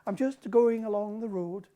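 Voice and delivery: put-on sing-song Western Highland accent. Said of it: "it's almost like a song".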